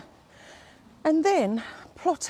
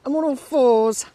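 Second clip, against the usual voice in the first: loud joking repeat; 2 semitones higher, 7 dB louder than usual. Real, not acted.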